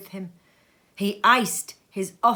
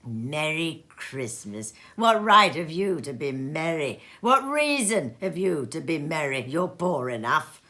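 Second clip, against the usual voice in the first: grumpy miser; 2 semitones lower, 3 dB louder than usual. Acted. Scrooge scolding nephew.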